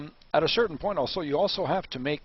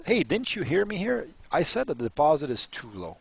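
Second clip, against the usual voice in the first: impatient vendor; 4 semitones higher than usual. Acted. Vendor role-play, insisting.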